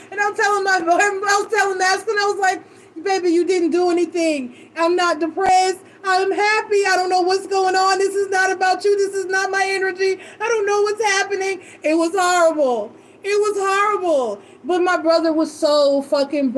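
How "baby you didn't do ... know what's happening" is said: higher-pitched insistent plea; lightly acted exasperated insistence; retold frantic reassurance. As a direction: reenact reassuring a partner while upset. Retelling her reassurance to her partner.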